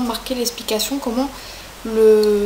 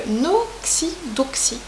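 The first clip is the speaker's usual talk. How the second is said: whisper; 3 semitones higher, much slower than usual. Real, not acted. Whispered brand name reveal.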